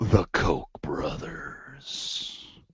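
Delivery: slow, put-on ominous, foreboding voice. Co-host making a joking aside to the other host, in an ominous voice. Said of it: "that was the best, the best ominous voice I could come up with".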